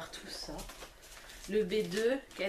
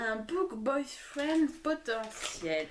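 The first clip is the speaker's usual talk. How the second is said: English words in a heavy French accent; bad English accent; slower than usual. Real, not acted. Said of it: "J'ai un accent anglais de merde".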